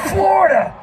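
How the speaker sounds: high stage holler; mock frontman shout. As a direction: call out to the arena, hammed-up. Mimics own stupid stage shouts.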